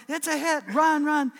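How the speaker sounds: high, loud excited coach's yell; surprised coach. Retold or imitated. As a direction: imitate a startled coach urging the runner on. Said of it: "The coach was taken completely by surprise".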